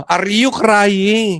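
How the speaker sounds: slow, drawn-out mock question; hammed-up slow interrogation; mock prodding. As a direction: draw out each word as if coaxing a confession. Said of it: "Sabihin mo na".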